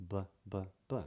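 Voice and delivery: "b, b, b" each with a short voiced release. Shown as a demonstration. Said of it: "You can't say a B unless you release a little bit of sound".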